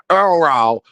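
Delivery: "Earl Rao" with Earl stretched into two syllables, ending "ral"; imitated name pronunciation. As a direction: mimic his odd "Earl Rao", rhyming the end with "pal". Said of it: "how sent I R saying Earl Rao".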